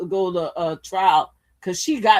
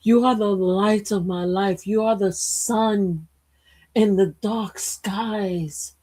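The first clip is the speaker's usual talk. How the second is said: mock tender sweet talk; 2 semitones lower than usual. The speaker softly sweet-talking.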